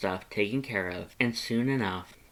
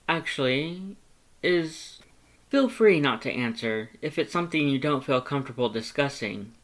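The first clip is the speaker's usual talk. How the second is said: higher, careful questioning voice; hesitant Papyrus; 4 semitones higher than usual. Acted. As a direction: tiptoe into a touchy subject. Papyrus asks delicately.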